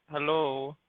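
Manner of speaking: calling out. Acted. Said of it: "to just be like".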